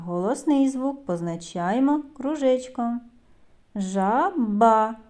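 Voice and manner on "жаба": "Жаба" drawn out to bring out Б; sound-by-sound demonstration. Shown as a demonstration. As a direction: say "Жаба" slowly, dwelling on the second syllable's sounds. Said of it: "Наступний звук Б".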